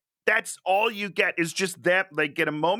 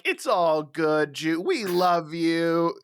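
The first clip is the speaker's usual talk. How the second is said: mock sweet forgiveness; much slower than usual. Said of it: "they're not gonna just be like".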